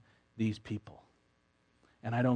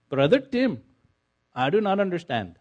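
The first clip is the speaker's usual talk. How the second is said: confused friend; 6 semitones higher, 7 dB louder than usual. Retold or imitated.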